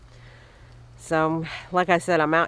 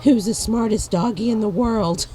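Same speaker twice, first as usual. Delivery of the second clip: louder, higher pet-talk praise; doggy praise; 4 semitones higher, 6 dB louder than usual. Real, not acted. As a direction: gush over the dog. Praising the dog.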